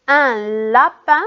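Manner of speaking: "un lapin" carefully separated into syllables. Shown as a demonstration. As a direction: sound out "lapin" for a class, la, then pin. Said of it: "dans la première syllabe". (« lapin » articulé syllabe par syllabe)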